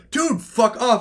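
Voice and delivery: high, loud retort; hammed-up irritated comeback; mock annoyance. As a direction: imitate a fed-up player telling someone off. Player answering the abuser.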